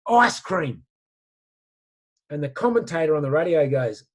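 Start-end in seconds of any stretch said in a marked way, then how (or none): 0.0-0.8 put-on old man's answer. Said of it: "He said".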